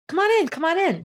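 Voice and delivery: high, welcoming call through the window; sweet inviting hostess. Retold or imitated. Woman inviting the visitor in, lightly voiced sweet hostess. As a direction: coax him inside, all smiles.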